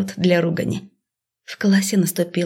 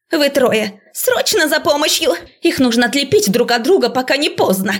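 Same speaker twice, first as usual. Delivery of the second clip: urgent orders; 6 semitones higher than usual. A narrator's reading. Professor dispatching students for help. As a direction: send them running.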